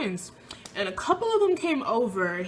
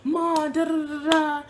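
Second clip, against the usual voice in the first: frantic calling; 6 semitones higher, 4 dB louder than usual. Retold or imitated.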